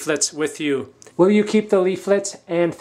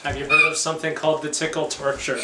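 laughing. Pretend. Teasing threat, laughing.

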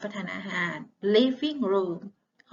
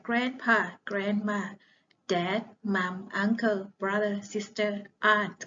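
slow word drill; much slower than usual. Shown as a demonstration. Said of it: "ทบทวนคำศัพท์เกี่ยวกับสมาชิกในครอบครัว".

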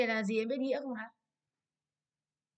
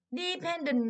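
"Dependent" stressed on PEN; stress on second syllable; 6 semitones higher, 3 dB louder, much slower than usual. Shown as a demonstration. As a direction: put the weight on the middle of "Dependent". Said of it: "đã là trọng âm hai rồi".

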